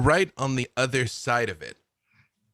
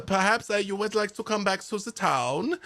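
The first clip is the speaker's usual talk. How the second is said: higher, cheerful Germanic NPC voice; chatty eccentric woodsman, pleased with himself; lightly German-accented cheerful stranger; Albrecht the nudist; 5 semitones higher than usual. Acted.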